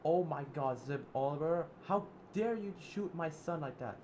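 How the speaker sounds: high, loud furious cry; mother Alice raging at Zip Oliver for shooting her son; shocked outrage. Acted. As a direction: shriek then scold the shooter. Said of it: "Alice said".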